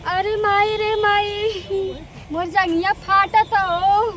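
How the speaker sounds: slow, drawn-out moan of pain; pained wailing. Acted. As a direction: wail like the legs are giving out. Wife wails about aching thighs. (दरद से कराहत हाय-तौबा)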